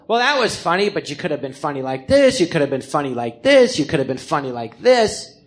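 a hint of the Texas improv teacher. Texan improv teacher coaching the new student, light Texas accent. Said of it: "who often spoke like this".

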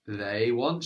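"they" stretched long and emphasized; stress on they. Shown as a demonstration. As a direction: dwell slowly on "they" before "want". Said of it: "stressing the word for they".

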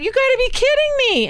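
imitating a friend cracking up; laughing disbelief. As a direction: squeal it out, mid-laugh, in disbelief. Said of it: "drops to the lawn laughing".

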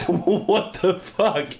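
high, drawn-out disbelief; stunned disbelief. Real, not acted. Host whose note just deleted itself, stunned.

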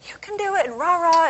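mock seminar cheerleading, high and loud; rah-rah hype. Speaker mimicking the other seminars' rah-rah, hyped-up. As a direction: imitate a pumped-up motivational speaker. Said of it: "all this hype".

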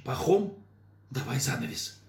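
loud urgent call. Acted. Mayor calling out.

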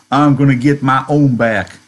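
a hint of a sulky grudge; Curly's revenge. Teacher quoting Curly wanting revenge, mildly mocking.

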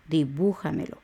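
"Dibújamelo" with the accent on "bú"; stress on bú. Shown as a demonstration. Teacher showing where the tilde goes, stress on "bú" in "Dibújamelo". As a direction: lean on the U in "Dibújamelo". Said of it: "el tilde va en la U".

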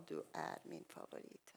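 soft whispered confidence. Retold or imitated. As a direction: breathe it like a fond secret. Pastor's tender words, retold.

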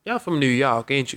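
put-on Southern country accent. Woman in a club line asking strangers where they're from, Southern country accent. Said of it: "You made it sound like she was from the belly of, uh, Arkansas".

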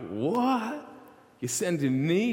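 a shrill jump up in pitch; disbelief, caught off guard; shocked Moses. Retold or imitated. Moses reacts to being sent to Pharaoh, shocked and high. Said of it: "Moses is like".

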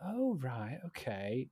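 retold clueless acknowledgement; feigned understanding. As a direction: pretend politely that you know the place. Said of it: "clearly not knowing where that is".

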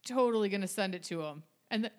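talking through hiccups; words broken by a hiccup. Real, not acted. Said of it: "I'm hiccuping".

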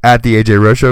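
hiccuping between words; talking through hiccups. Real, not acted. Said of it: "Excuse my hiccups".

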